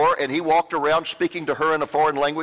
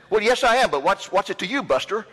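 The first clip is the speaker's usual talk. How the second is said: defensive snap; 5 semitones higher than usual. Retold or imitated. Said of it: "I was really getting mad".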